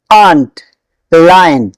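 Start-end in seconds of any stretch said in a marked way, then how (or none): 1.1-1.7 लायन said as "lie-un", long "ai" sound; लायन clearly as "laa-yun", not "loyun"; correct pronunciation. Shown as a demonstration. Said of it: "लॉयन नहीं".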